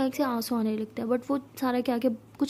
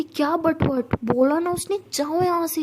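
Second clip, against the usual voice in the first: angry snap; 5 semitones higher, slower than usual. Acted. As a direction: bark it at her. Sara dismisses the maid.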